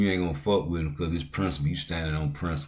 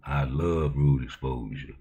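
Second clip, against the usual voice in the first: sarcastic love; 4 semitones lower, slower than usual. Pretend. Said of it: "I don't like rude exposure".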